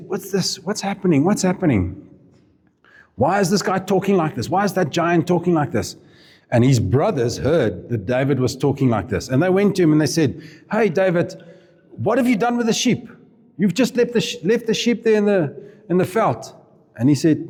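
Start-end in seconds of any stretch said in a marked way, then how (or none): 0.1-6.0 higher-pitched, acted bewildered questions; puzzled questioning. David asking the soldiers about the giant, puzzled. 10.7-16.5 high-pitched acted reproach; mock scolding. David's brothers telling him off about the sheep, mock scolding.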